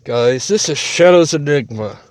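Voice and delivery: talking around a cigarette; cigarette in mouth. Real, not acted. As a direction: lips holding a cigarette. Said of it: "Sorry, I have a cigarette in my mouth".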